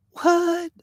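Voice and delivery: sharp high baffled what. Real, not acted. Streamer baffled by people in double masks, high incredulous.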